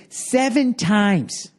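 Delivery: slow, flat verdict; mimicking the booker. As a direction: deliver it slow like a judge. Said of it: "he goes".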